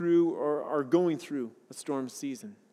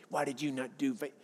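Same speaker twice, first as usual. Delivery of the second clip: condemning God; 6 semitones lower, 10 dB quieter than usual. Retold or imitated. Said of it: "like God saying".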